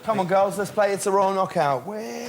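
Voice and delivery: hammed-up party invitation; party cheer. Acting Prince Harry at party.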